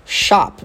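"Shop" as SHAHP; American "Shop", ah vowel and closed final p. Shown as a demonstration. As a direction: model "Shop" with an open ah. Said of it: "apesar de escrever com O".

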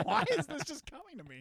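high, loud, thrilled self-quote; excited. Retold or imitated. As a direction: sound delighted at your own idea. Retelling own excited thought.

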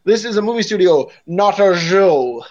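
a hint of a haughty 1930s aunt; haughty society aunt. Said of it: "haughty nineteen thirties society aunt delivery".

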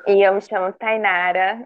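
low, sultry self-introduction; seductive voice. Pretend. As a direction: purr your name like a seductress. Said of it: "dessa voz sedutora". (voz sedutora e grave)

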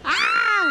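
sudden high shriek of surprise; startled squeal at the clip; sharp shriek. Real, not acted. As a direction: let out a startled high yelp. Reacts on seeing the video.

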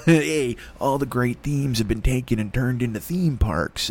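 a light nod to Christian Slater's pirate DJ, slowed down; lightly voiced underground radio host; Christian Slater radio rant. Comic imagining himself broadcasting from Mexico as a DJ. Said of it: "the fucking Christian Slater of Mexico".

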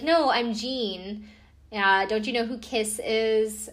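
slow, offended "No, I'm Gene"; indignant star. Retold or imitated. Rock star insulted at the gate, slow and indignant. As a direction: drag it out, wounded ego.

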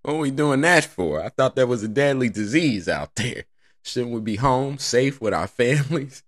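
a lightly voiced high whiny player; mock whiny LeBron. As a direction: whine it like a spoiled star. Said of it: "he said the same thing".

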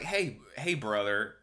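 mild mock pep talk; lightly voiced hustle bro. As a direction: coach the boss like a gym bro. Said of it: "And it's like".

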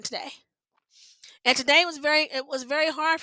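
fighting back tears; real distress, close to crying; near tears. Real, not acted. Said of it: "I'm trying not to cry now".

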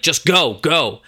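half-acted shout telling dad to go; retold yell. Son snapping at his father to leave, a mild mock yell. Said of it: "yells at his dad".

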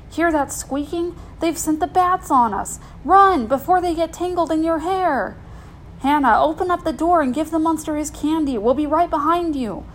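high-pitched pretend alarm; urgent mock warning. Kids pushing Hannah to the basement, mock alarm. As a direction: egg the listener on with staged fright.

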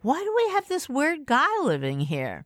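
whiny high complaint; exasperated teen griping about the lodger; annoyed. Retold or imitated.

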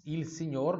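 signor with GN as NH; NH sound in signor. Shown as a demonstration. Teacher modelling the word for students, NH sound in signor. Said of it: "som de N H".

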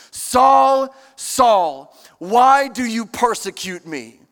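mild, earnest voice from heaven; lightly voiced Jesus calling. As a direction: call his name twice, gently. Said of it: "heard a voice say to me".

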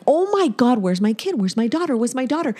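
acted rising panic, starts high; freaking out. Mother retelling a dream of losing her daughter, mild panic. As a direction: retell frantic searching, mildly panicked. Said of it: "I'm freaking out in my dream".

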